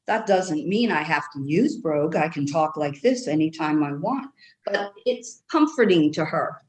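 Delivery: light Irish brogue held throughout; Irish accent. Acted. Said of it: "I love your accent".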